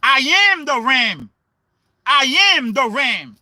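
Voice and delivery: Amram read as I am the ram; split pronunciation. Shown as a demonstration. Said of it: "How would you say that?".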